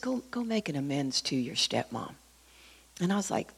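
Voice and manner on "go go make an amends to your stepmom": hushed, softly spoken instruction; still quiet voice. Retold or imitated. God quietly telling someone to make amends, still quiet voice. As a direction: say it quietly, easy to miss. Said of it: "just quietly, the still quiet voice".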